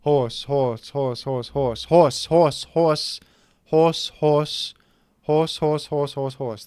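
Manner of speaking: rattling off horse over and over as a chant; repeated word on request. Shown as a demonstration. Host fulfilling a viewer request to end the show, rhythmic and playful. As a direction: tick off each horse like a count. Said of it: "I gotta say horse twenty times".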